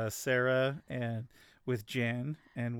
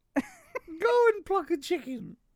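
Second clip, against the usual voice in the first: put-on female voice, higher; 4 dB louder than usual. Showing another speaker a put-on female voice. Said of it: "I can do a female voice".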